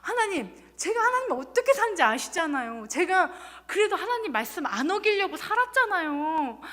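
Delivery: retold protest. Speaker listing years of ministry to God, aggrieved protest. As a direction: re-enact pleading your case indignantly to God. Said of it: "하나님께 막 따졌어요".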